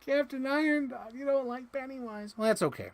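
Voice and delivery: gasp, then high and loud sweet talk to a toy; sing-song coaxing. Pretend. Cooing to the toy Captain Iron Dog, high and loud.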